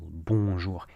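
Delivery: bonjour with a nasal "on"; nasalized on sound. Shown as a demonstration. Teacher showing learners bonjour, nasalized "on". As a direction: let the "on" of bonjour hum through the nose, no N. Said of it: "There's no nasalized on sound".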